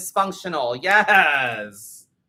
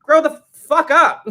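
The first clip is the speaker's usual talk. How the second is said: mock yell, much higher and louder; retorting; 11 semitones higher, 9 dB louder than usual. Yelling back at viewers who complain she's mean. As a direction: snap it back at a whiny viewer. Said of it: "And I'm like".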